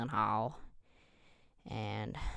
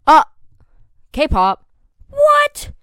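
loud, very high squeak of disbelief; shocked yelp; 20 dB louder, much slower than usual. Real, not acted. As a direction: jump out of your seat at the name. Surprise reading festival lineup.

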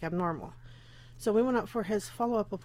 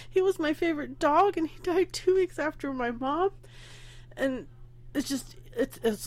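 voice breaking; 5 semitones higher than usual. Real, not acted. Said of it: "I'm gonna get emotional".

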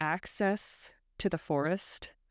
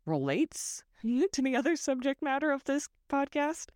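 laughing; 9 semitones higher than usual. Real, not acted. Laughs mid-sentence.

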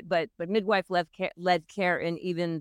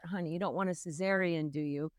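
sweet motherly advice; 7 dB quieter than usual. Retold or imitated. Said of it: "in her full heart".

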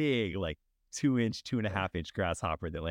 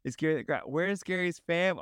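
imitating an anxious kid, pitched up; worried child; 5 semitones higher than usual. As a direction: pester with high, worried questions, like a child. Imitates worried child asking about grasshopper.

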